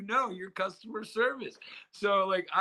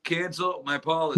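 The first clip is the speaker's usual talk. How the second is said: louder, mock-frustrated caller repeat; insistent repeat; 5 dB louder than usual. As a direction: push it out for a machine that misheard. Caller repeating for phone bot.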